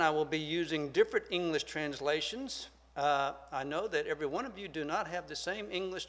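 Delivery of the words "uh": normal talking voice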